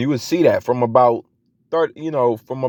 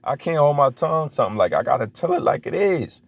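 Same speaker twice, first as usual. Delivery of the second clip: song intro voice; 5 semitones higher than usual. Retold or imitated. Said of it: "Jake talking about".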